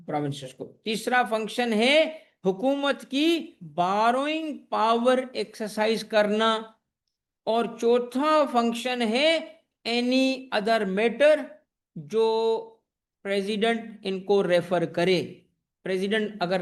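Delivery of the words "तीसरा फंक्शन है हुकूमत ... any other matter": very slow, drawn out word by word; slow right down so they can write; slow dictation. Shown as a demonstration. Teacher dictating the NFC functions. (बहुत धीमे, लिखवाते हुए)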